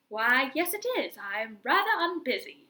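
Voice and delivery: a light put-on British teacher accent. Teacher agreeing to a student's request, in a mild British accent. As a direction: answer primly, lightly British. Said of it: "I don't know why she's British".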